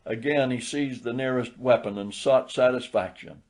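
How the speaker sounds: ordinary delivery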